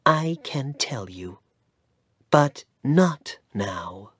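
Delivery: sad whisper, slowing at the end; mother whispering sadly to her son. Acted. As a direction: breathe it out, holding back the truth. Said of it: "his mother said sadly".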